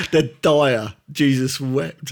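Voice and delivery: drawn-out weary disgust; exasperated quote. Retold or imitated. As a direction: sigh it out like a fed-up critic.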